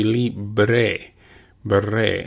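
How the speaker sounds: libre with a soft, almost V-like B; soft Spanish B. Shown as a demonstration. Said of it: "we pronounce it just a little bit softer in Spanish".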